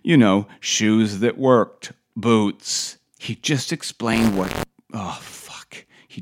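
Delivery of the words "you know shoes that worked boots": slow, lightly imitated Austrian accent; Arnold accent. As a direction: spell it out slowly in a mock Austrian accent. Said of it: "Arnold went on".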